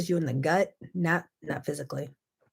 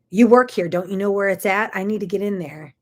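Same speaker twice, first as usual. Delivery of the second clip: loud, exasperated demand; imitating an annoyed shopper, louder; mock frustration; 6 dB louder than usual. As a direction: snap at the worker, half-acted. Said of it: "out of frustration".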